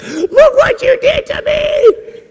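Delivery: very high, slow accusing screech; hammed-up shrieking female impression; wailing injured girlfriend. Bleeding girlfriend blaming boyfriend, imitated high wail. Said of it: "And she's like".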